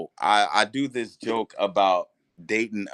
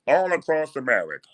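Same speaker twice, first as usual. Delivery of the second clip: high, put-on boastful voice; proud girlfriend voice; 4 semitones higher than usual. Girlfriend bragging about her cookie job, high voice. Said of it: "she got a heavy voice".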